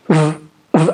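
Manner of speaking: v buzzed long and low; voiced v. Shown as a demonstration. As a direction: hold a buzzing v sound. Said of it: "But when I make the v".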